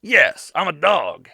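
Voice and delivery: loud, lightly barked dog voice; comic talking dog. Retold or imitated. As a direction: bark the words as a dog. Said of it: "a little s-, fucking bark".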